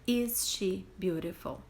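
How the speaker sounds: slow, careful English question; slow model question. Shown as a demonstration. Teacher modelling the question slowly for students. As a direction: say it slowly so they can copy it. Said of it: "também vou trocar o Anna".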